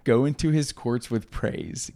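reading through giggles; slow, laughing through the verse; laughing while reading. Real, not acted. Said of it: "You're just laughing".

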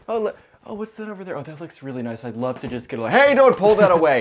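high, eager then indignant bull; bull character voice. Acted. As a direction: play a bull tempted by red. Playing the bull, wanting red.

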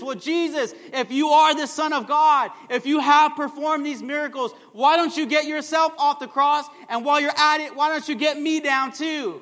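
taunting, sneering challenge; mocking criminal. Criminal on the cross taunting Jesus, mocking. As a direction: jeer at him from the next cross. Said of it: "someone on the opposite side of Jesus jeering Jesus".

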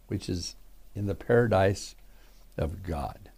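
measured, solemn Bible reading; scripture reading. Acted. Pastor reading Revelation to his radio flock, solemn and measured. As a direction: read the verses with weight, letting them fade at the end. Reads scripture aloud to listeners.

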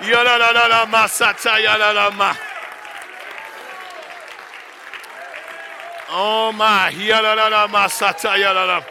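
rapid rhythmic syllables in tongues; speaking in tongues. Real, not acted. Preacher praying in tongues before the church.

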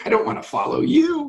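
high, shouted refusal; defiant shout. Retold or imitated. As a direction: yell it like a stubborn prospect. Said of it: "they're looking at you like".

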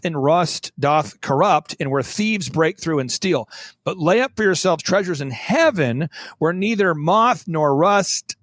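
slow, measured Bible recitation; scripture reading. Acted. Guest reading scripture to podcast listeners, slow and solemn. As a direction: read the verse out slowly and solemnly. Reads Matthew 6 scripture aloud.

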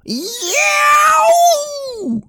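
high yelping yell. Retold or imitated. Son stepping on a mouse, yelping like a hurt dog. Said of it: "a blood-curdling yell".

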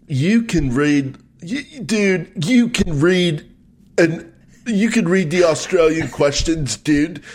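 high, slow mock American "dude" accent; Australian faking American accent. Co-host gives up his Australian impression, hammed-up fake American accent. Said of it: "I'll just do an Australian trying to do an American".

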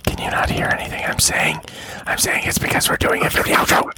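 whispered explanation; ASMR whisper. Acted. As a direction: keep it in a whisper. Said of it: "we're doing A S M R".

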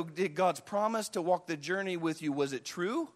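low, hushed questioning; subdued, troubled wondering; struggling doubt. Acted. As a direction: drop low and soft, doubting the promise. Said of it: "the struggle begins to go".

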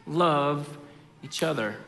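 measured, deliberate reading of the verse; scripture reading. Acted. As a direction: let each word of the command land.

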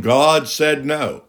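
slow, dismissive "God said no"; mock quote. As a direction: drag out "God said no" as the wrong teaching. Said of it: "I've heard people saying".

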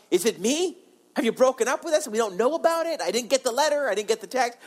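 mock bewilderment, rising high; bewildered questioning. People pleading with silent God.

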